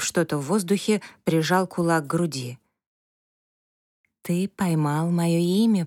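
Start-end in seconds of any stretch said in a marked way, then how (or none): 4.2-5.8 ancient calm rustling echo. Acted. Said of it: "прошелестел тихий лиственный голосок".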